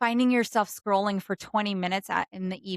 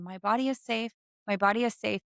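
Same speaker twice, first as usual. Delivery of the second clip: calm affirmation. Shown as a demonstration. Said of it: "in the most calmest tone".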